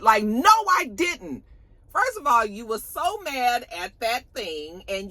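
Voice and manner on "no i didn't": high, drawn-out insistent denial; stretched, high-pitched "no way" protest; adamant denial. Retold or imitated. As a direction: imitate someone flatly refusing to admit it. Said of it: "she was so adamant".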